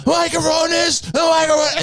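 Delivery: very high mock-furious screech; hammed-up outraged yelling; imitated ranting nuts. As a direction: screech it like a friend losing his mind. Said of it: "he's going nuts".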